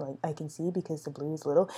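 soft speaking voice.

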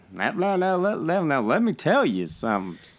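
loud, booming cartoon rooster voice with wide pitch swings. Describing how someone's voice sounded, the speaker slips into a Foghorn Leghorn voice. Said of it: "What's the big chicken in Looney Tunes?".

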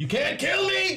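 very high, drawn-out shout. Voicing a character leaping on top of something: yelling. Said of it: "That's exactly what I yell out".

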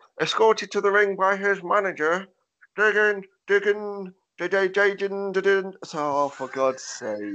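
talking out the side of mouth. Retelling a ring announcer trying to announce his name, talking out the side of mouth. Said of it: "spoke from the side of his mouth".

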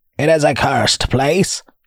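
sudden, abrupt, high, ominous, foreboding cry. Reading a fisherman's sudden line, with abrupt foreboding. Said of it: "the fisherman spoke with abrupt foreboding".

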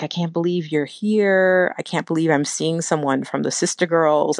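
acted voice, almost crying. Speaker retells a young woman meeting her band at a show, imitating someone near tears. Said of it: "she was like almost crying".

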